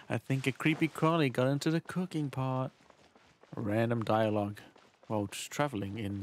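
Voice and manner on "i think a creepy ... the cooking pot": lightly mimicked game voice, pitched up; a hint of a mock character voice; mimicking game character. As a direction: parrot the character's line a little higher. Repeats game character's line just heard.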